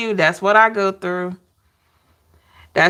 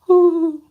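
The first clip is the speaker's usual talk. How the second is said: owl call; 9 semitones higher, 3 dB louder than usual. Retold or imitated. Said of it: "that's how they sound".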